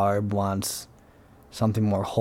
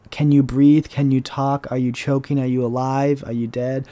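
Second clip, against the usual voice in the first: panicked questions; 3 semitones higher, 4 dB louder than usual. Retold or imitated. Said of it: "I literally panicked and went".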